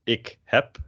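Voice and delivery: "ik heb" said like "ik hep"; final B as P. Shown as a demonstration. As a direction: end "heb" on a voiceless p. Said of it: "it's a P instead of a B".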